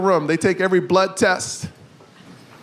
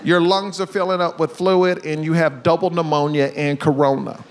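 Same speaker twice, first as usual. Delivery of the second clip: nervous doctor; 5 semitones lower than usual. Retold or imitated. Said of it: "he was, like, nervous".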